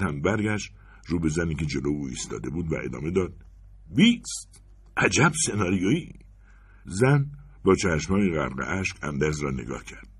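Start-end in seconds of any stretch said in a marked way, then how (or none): 4.0-6.1 a sharp, very high "بیست!" then a mock marvel; sarcastic delight. Anders scoffing to the woman in front, high and sarcastic. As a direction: cheer it like a bad play.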